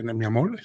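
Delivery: "amor" closed on a clear L instead of R; final L for R. Shown as a demonstration. Streamer explaining the Cuban word ending, "amor" said with final L. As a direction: finish "amor" with an L, Cuban style. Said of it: "se acaba con la L".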